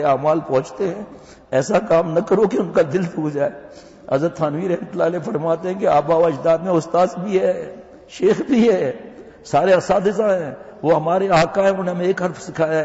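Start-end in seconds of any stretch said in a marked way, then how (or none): 1.5-12.8 louder, higher preaching push; rising exhortation. Acted. Preacher warning students about teachers, loud and rising. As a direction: drive the warning home to the crowd.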